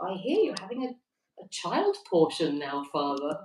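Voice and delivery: put-on reading a chat comment in a light Irish accent; a quick Irish lilt on the priest joke; mock Irish priest voice. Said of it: "I can't do it Irish accent".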